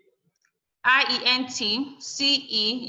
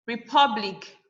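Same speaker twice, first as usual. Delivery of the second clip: "Republic" with PUB stressed. Shown as a demonstration. Teacher showing second to last syllable stress, "Republic" punched on PUB. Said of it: "The pub is the second to the last syllable".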